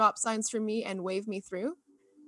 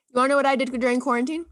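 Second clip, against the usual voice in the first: fast, louder eager question; eager teasing; 3 semitones higher, 6 dB louder, faster than usual. Real, not acted. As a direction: rush in, dying to tell. Eagerly launching into her own story.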